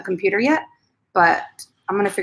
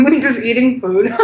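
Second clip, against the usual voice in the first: laughing; 2 semitones higher, 5 dB louder than usual. Real, not acted. Laughing while eating on stream.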